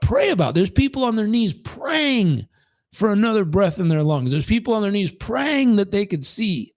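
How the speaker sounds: lightly voiced wise old man; a hint of an old preacher.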